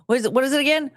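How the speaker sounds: ordinary talk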